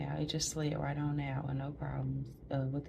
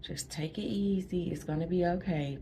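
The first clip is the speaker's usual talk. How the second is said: calm reassuring. Retold or imitated. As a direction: soothe them like nothing is wrong. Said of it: "That's how I'm talking to the nurses".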